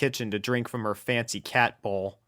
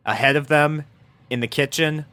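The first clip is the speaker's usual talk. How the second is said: ordinary delivery, nothing marked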